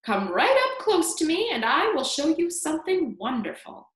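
put-on high, creaky, coaxing old voice; creaky old man. A narrator's reading. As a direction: lure the listener closer with a creaky promise. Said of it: "very slow and creaky".

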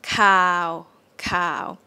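"cow" held flat and monotone; mid tone. Shown as a demonstration. Teacher models the Thai midtone, flat "cow". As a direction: say "cow" level and long, no up and down. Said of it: "Midtone is flat".

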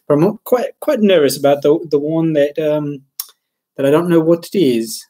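a touch of faux British lilt; lightly put-on English accent, nervous; mock British accent. Streamer slipping into a mock British accent on stream. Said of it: "I'm talking like British man".

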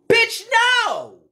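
flat refusal, shocked then dismissive; scoffing disbelief at a comment; incredulous no. Real, not acted. Reacting to an insulting comment.

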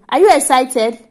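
loud, eager question to a little one. Real, not acted. Mother asking baby girl if she's excited, eager.

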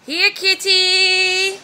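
calling a lost pet. Real, not acted. Calling the missing cat.

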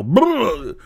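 imitating a fan shocked to see him; surprised fan. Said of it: "and they'd go".

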